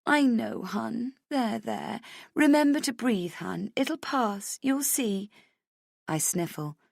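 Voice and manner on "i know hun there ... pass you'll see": put-on high, sympathetic girlfriend voice; comforting friend. Friend in the toilets consoling crying Rach, high and sympathetic. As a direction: soothe her like a worried best friend. Vivian calms her friend.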